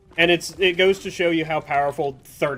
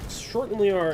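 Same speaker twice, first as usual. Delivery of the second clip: Sean Connery; 5 semitones higher than usual. Retold or imitated. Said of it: "Am I Sean Connery?".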